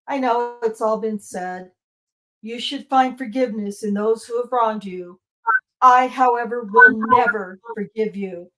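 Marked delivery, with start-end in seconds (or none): 5.8-8.5 louder, hard and resolute; real controlled anger in court; firm defiance. Real, not acted. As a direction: spit it out at the man who failed her. Confronting daughter's killer in court.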